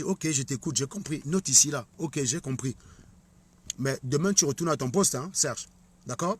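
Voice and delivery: acted boss, low and hushed; placating boss. Boss answers Serge who is unhappy with his pay, low placating murmur. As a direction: play a boss softly humouring an unhappy worker.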